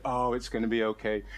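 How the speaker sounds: low, gentle imitation of a comforter; kind consoling. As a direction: soothe someone who is crying, pitched low. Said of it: "what all kind people do".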